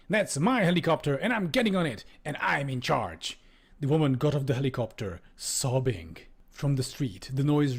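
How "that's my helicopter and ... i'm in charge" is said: raised, mildly hysterical insistence; near hysterics. Acted. Ambassador claims the helicopter, high petulant near-hysterics. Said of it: "Feldkauf was nearing hysterics again".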